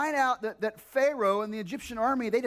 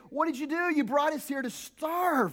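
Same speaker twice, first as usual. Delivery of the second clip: accusing Israelites; 6 semitones higher than usual. Retold or imitated. Israelites accusing Moses of bringing them to starve, indignant outcry. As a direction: hurl the blame at Moses. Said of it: "start complaining again and say".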